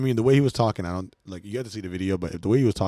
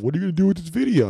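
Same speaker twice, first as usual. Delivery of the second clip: retold questioning; 8 semitones higher, 4 dB louder, faster than usual.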